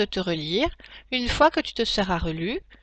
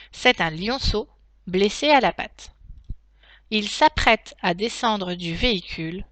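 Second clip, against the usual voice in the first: reading aloud. Shown as a demonstration. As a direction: clear read-aloud for pupils. Teacher reads the text aloud.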